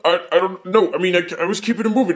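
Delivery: fast, flustered, stumbling protest; panicked denial. Acted. Kevin defending himself over Tony's death, panicked. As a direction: blurt excuses in a rising panic.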